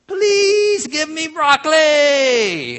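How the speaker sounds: put-on very slow, high little child begging; pleading kid. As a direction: beg sweetly like a four-year-old. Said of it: "four-year-old kid".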